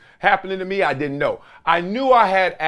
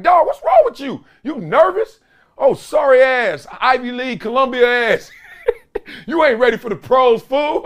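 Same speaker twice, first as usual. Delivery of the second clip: high, loud mocking teammate voice; teasing teammates; 8 semitones higher, 3 dB louder than usual. Teammates mocking a nervous rookie, high and loud. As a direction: rib him like a locker-room teammate. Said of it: "They're like".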